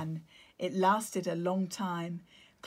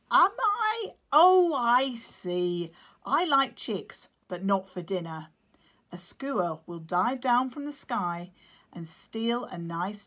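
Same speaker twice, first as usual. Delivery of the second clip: amused penguin; 2 semitones higher, 7 dB louder than usual. Acted. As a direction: laugh off the question, then warn. Claudius voiced.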